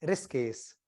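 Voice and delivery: ऋषिकेश said as rish-kes, no i after sh; clipped hill-style ऋषिकेश; ऋषिकेश the Garhwali way, rishkes; Pahari pronunciation. Shown as a demonstration. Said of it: "ये पहाड़ी में बोलना है".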